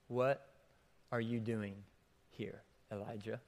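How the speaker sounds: low and quiet, fading to almost nothing; soft voice of God. A narrator's reading. God asks the hiding prophet, quiet and gentle. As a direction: let God's question sink away into hush. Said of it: "Then a voice said to him".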